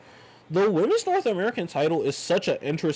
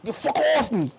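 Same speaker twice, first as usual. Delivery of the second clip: higher, put-on mock tough-guy voice; mock Obafemi growl; 9 semitones higher than usual. Fan imitating a wrestler tossing opponents, higher mock tough voice. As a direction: ham up a wrestler brushing someone off. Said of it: "he really just be like".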